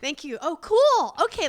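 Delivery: high, overbright fake casualness; overcompensating cheer. Mom covering for her screaming husband, overcompensating. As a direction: act as if nothing's wrong, overdoing it. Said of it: "way overcompensating, as if nothing's going on".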